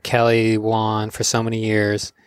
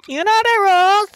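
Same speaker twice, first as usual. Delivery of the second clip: much higher, louder mock uncle voice; Uncle Braden's stern line; 5 dB louder than usual. Uncle Braden laying down the local rules. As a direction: bark it like the rule-keeping uncle. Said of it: "like Uncle Braden said".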